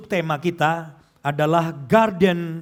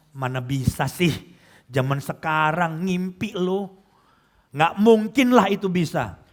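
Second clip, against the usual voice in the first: lightly mimicked dismissive naysayer, drawn out slowly; a slow, mildly stinging put-down; cutting naysayer; 2 semitones lower than usual. Negative person shooting down someone's future plans, mildly cutting. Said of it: "Ngomong dikit tapi nyelkit".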